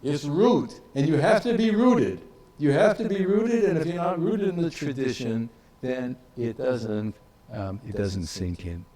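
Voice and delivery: put-on an elderly scholar's German accent, pressing the point on rooted. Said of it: "he said in his very German accent".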